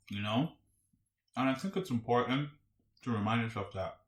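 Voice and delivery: talking with food in mouth; chewing while talking. Real, not acted. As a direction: speak around a bite of food. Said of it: "Sorry if I sound like I'm eating something".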